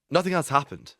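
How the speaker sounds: half-acted plea of a guilty boyfriend; pleading. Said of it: "he pleaded".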